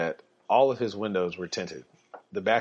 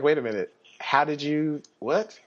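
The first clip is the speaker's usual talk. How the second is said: baffled officer; 5 semitones higher than usual. Retold or imitated. Officers baffled at his escape.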